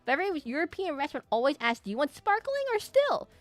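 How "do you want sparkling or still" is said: imitating a waiter's thick Czech accent, pitched high. Mimicking the Czech waiter asking about water, thick Czech accent. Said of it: "they were saying it in such a accent".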